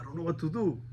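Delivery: hushed, voiceless inner aside; whispered thought. Retold or imitated. Storyteller admitting he agreed with his friend, whispered. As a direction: whisper it like a secret doubt.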